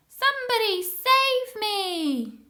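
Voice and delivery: high, loud, slow desperate cry; panicked plea. A narrator's reading. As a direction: plead to be rescued from up high. Sam stranded in tree.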